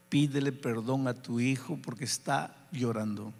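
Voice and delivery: low, patient persuasion; sweet, gentle urging. Retold or imitated. The Spirit working on a stubborn father, sweetly urging. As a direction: keep it low and mild, coaxing without argument. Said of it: "dulcemente va trabajando".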